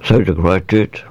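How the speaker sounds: talking around a lolly; words blurred by a sweet in the mouth; mouth full. Real, not acted. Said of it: "I got a lolly in my mouth".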